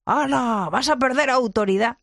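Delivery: voz burlona de escéptico, más aguda; mock objeción. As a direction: imita al que se escandaliza. Objeción imitada, voz distinta. (tono burlón de escéptico escandalizado)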